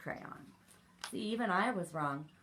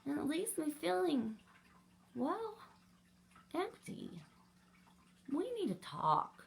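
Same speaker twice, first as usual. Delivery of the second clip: lonely white crayon; 8 semitones higher, 6 dB louder than usual. Acted. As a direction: sound small and forgotten. White crayon's sad letter.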